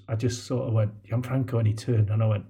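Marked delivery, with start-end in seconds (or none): 1.0-1.6 understated, teasing little call; sly smile. Retold or imitated. Running past his beaten opponent, slyly smiling. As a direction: say the name through a slight smile. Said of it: "a smile on, on the sides of my lips".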